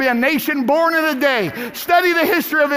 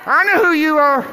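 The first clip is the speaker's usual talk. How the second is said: crying out louder; 3 semitones higher, 5 dB louder than usual. Retold or imitated. Preacher voicing Bartimaeus crying out louder to Jesus. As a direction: shout it like the blind man calling.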